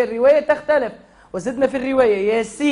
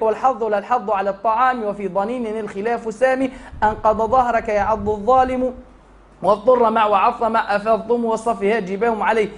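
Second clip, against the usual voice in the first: verse recitation. Acted.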